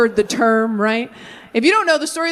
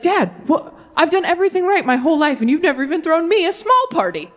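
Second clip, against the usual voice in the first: put-on whiny older son; 6 semitones higher, faster than usual. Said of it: "He's like".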